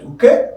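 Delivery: okay with the voice lifting on KAY; okay, rising on its stressed ending. Shown as a demonstration. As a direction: lean up into the second syllable of okay. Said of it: "raise up your voice from this place".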